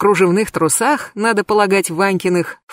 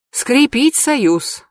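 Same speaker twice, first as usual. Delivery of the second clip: slow, sighing words, a little higher; 6 semitones higher, much slower than usual. A narrator's reading. Narrator sighs to Pashka, slow and resigned. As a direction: sigh it out slowly. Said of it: "вздохнула я".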